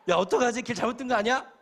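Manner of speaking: 높고 크게 겁먹은 외침; loud, high panic about taking the wrong road; panicked worry. Retold or imitated. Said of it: "속으로는 막 불안해 죽겠는데". (길 잘못 들어 겁에 질린 목소리)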